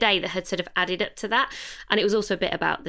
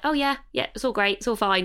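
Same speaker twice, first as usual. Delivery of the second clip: flippant default. Retold or imitated. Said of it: "we just default to".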